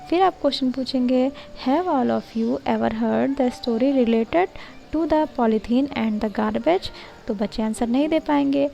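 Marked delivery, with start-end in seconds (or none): 1.7-6.9 very slow, word by word, as if dictating notes; slow dictation read. Shown as a demonstration. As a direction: read it out slowly so students can copy. Reads lesson plan text aloud. (धीमी, शब्द-दर-शब्द dictation वाली पढ़ाई)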